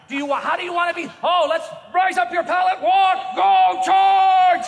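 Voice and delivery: rally a sick man out of his bed like a charging general; mock exhortation. Pastor exhorting a hospital patient, building to a rousing shout. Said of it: "my exhortation gift never turns off".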